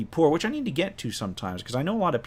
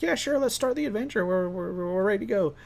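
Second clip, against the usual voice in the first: much higher, overeager imitation; mock eager; 9 semitones higher than usual. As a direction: play the group as eager to move on. Group eagerly brushes off problem player.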